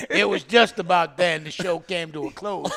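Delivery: lightly voiced folksy storyteller; hee-haw narrator. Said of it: "I like your other one".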